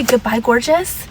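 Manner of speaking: slow, sweet fake goodbye; fake nice. Shown as a demonstration. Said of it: "But if you say".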